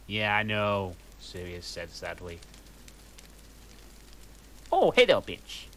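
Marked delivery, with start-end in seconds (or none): 4.7-5.6 mock emo greeting. Trelawney greeting students in a mock emo voice. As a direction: toss it off like a sulky goth. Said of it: "said in an emo voice".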